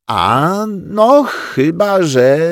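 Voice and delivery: high, slow, condescending agreement; graciously agreeing. Acted. Grześ graciously agrees to Rozalka's kiss, slow and high. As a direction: grant it as a great favour. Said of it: "zgodził się łaskawie Grześ".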